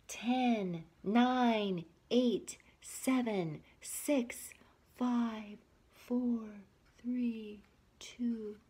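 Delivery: countdown fading from plain to whisper; sleepy countdown. Acted. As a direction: drift off as you count down.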